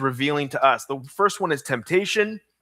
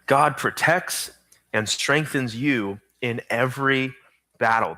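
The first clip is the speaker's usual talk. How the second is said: slow again, with pauses between phrases; slow dictation repeat; 2 semitones lower than usual. Shown as a demonstration. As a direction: let them catch every word. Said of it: "Here's your fill-in".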